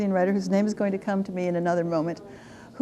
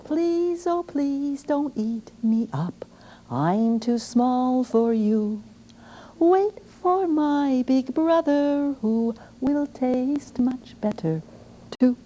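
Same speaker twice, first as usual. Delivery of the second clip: middle goat pleading; 5 semitones higher, slower than usual. Acted.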